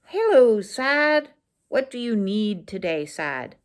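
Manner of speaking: greeting your sadness kindly; tender greeting, fading to a hush; gentle self-greeting. Shown as a demonstration. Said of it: "we're gonna actually go".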